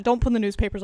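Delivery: mild anger. Real, not acted. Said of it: "I got mad".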